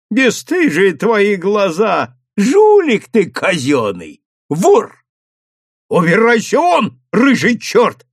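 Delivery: громко, выше и медленно; обругать на крике; громкая брань. A narrator's reading. Мужик ругает совхоза. (мужик бранит управляющего)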